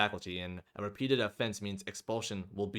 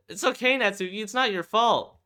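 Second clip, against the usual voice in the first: put-on much higher girl's voice, gentle and reassuring; girl comforting her sobbing friend; 12 semitones higher, 8 dB louder than usual. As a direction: soothe a crying friend in a high girlish voice. Friend comforting crying Natsuki.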